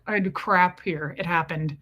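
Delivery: mock-discreet confession; side-of-mouth aside. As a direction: admit it from the corner of your mouth. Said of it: "Why do people think that that's discreet?".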